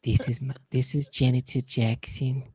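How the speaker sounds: slow, soft, drawn-out voice; Carol Channing-like Jackson. Retold or imitated. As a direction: croon it like an old showgirl. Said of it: "he sounds like this".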